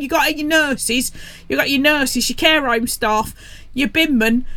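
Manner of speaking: put-on Pompey accent. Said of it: "totally local Pompey accent".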